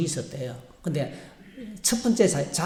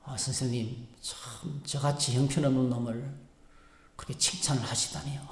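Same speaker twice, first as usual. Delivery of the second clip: softer, humble mumbled thanks; bad boy thanking the teacher, sheepish; 3 semitones lower, 8 dB quieter than usual. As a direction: sound small and unworthy. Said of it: "나쁜 자니가 말하기를".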